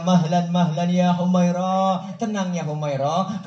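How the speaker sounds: slow, soothing hush; calming Aisyah. Acted. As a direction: gently settle her down. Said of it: "Rasulullah pegang tangan Siti Aisyah".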